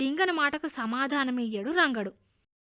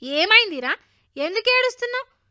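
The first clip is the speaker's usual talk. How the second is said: high, loud anxious questioning; concerned mother; 8 semitones higher, 7 dB louder than usual. A narrator's reading. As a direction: urgently ask the crying child. Mother questions her crying son.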